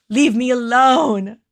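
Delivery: hammed-up whine at her watching partner; mock whiny plea. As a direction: stretch it out as a playful protest. Teasing Peter, says it twice.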